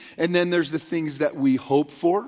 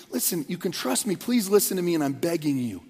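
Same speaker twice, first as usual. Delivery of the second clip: earnest plea; 4 semitones lower, 4 dB quieter than usual. Retold or imitated. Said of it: "strong, urgent, desperate plea".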